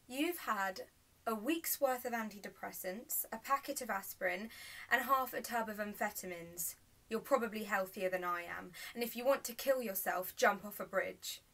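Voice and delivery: a touch of exasperated anger; angry retort. Acted. Acted angry retort to mother.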